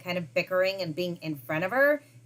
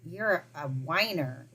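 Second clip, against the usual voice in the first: mild mock girlfriend; 4 semitones lower, much slower than usual. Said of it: "she's gonna be like".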